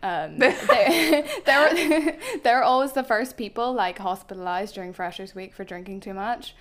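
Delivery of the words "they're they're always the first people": laughing while telling it. Real, not acted. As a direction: talk through laughter.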